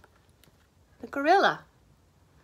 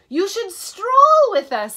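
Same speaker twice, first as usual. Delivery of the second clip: slow, louder proud peacock; 9 semitones higher, 9 dB louder than usual. A narrator's reading. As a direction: strut the words like a peacock, slowly. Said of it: "said the peacocks".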